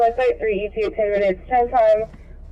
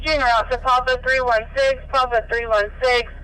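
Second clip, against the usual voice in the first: ambulance radio. Real, not acted. Scanner dispatch traffic played on stream.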